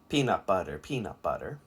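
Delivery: PEANUT BUTTER as four even syllables; four-beat rhythm. Shown as a demonstration. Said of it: "peanut butter has four".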